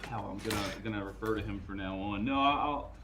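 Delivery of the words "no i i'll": breathless after the run; out of breath. Real, not acted. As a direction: still catching his breath. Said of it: "I gotta catch my breath".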